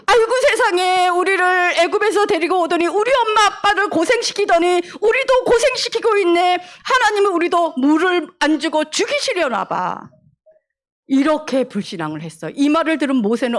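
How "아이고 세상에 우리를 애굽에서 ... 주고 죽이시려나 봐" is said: higher, exasperated moaning lament; whining complaint. Acted. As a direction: moan and blame, sighing aigo. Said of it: "엄마 아빠가 하던 말 그대로". (높은 목소리로 한탄하며 불평)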